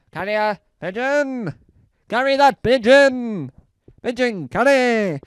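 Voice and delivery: loud hammed-up battle shout, slowed; mock war cry. Rallying pigeon troops with a loud mock war cry. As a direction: bark it like a comic army sergeant.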